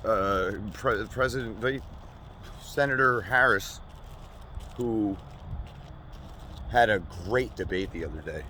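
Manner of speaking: mock-outraged defense of the guy; heated rant. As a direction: build into a shouting defense. Escalating comic rant.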